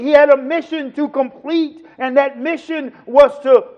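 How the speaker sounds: strong sermon voice, stretching key words; full-force preaching. Real, not acted. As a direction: drive the point home to the congregation.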